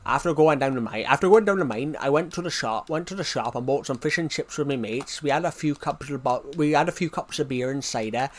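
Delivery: broad, thick regional British accent; exaggerated thick local accent. Shown as a demonstration. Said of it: "how thick some people's accents can be".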